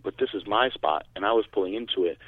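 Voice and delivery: unruffled courtesy; very calm. Retold or imitated. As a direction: politely ask a stranger to move, staying calm. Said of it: "very calm".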